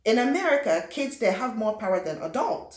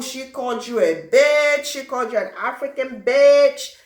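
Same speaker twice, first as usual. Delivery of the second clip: gossiping classmate; 4 semitones higher, 8 dB louder than usual. Retold or imitated. Classmate stirring up trouble.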